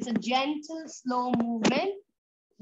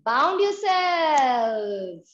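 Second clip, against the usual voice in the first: slow and louder, stretching each word; yoga teacher calling out a slow, loud hold; drawn-out coaching call; 6 dB louder, much slower than usual. Real, not acted. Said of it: "go twist full on".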